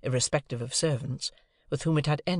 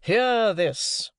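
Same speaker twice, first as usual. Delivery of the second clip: loud, raised cry to the heavens; helpless exclamation; 8 semitones higher, 6 dB louder than usual. A narrator's reading. Father exclaiming helplessly to the elements, loud and raised. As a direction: appeal to the elements. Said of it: "he helplessly exclaimed to the elements".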